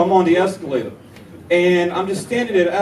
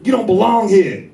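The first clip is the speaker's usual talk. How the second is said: 1 mock shout; 5 semitones higher, 4 dB louder than usual. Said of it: "She was just like".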